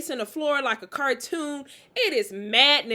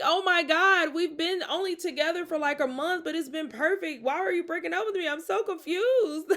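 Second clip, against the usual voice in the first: mock distraught; 5 semitones higher than usual. Retelling her hurt reply.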